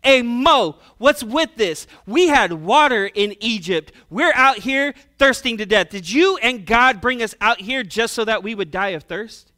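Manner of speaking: loud, exasperated crowd grumble; mock complaining. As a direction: hurl the complaint at the leader, acted out. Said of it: "began to complain".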